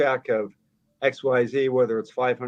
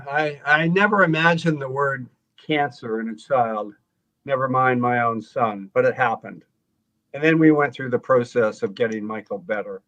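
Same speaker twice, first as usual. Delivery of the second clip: emotional reading aloud. Real, not acted. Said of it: "read that passage out loud to us".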